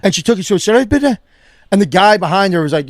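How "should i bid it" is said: put-on higher-pitched garbled Spanish-accented English; mock Spanish accent. Drive-thru worker to a confused customer, mock Spanish accent. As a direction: imitate a hard-to-understand Spanish accent. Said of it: "don't understand the Spanish accent".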